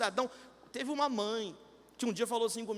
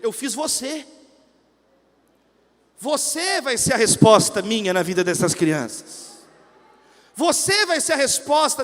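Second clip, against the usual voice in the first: God's answer; 2 semitones lower, 10 dB louder, slower than usual. Acted. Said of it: "Aí Deus falou pra ele".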